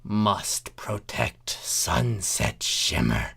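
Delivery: slow eerie monster murmur; creepy creature voice. Acted. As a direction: intone it like a strange thing. Changeling pot speaks.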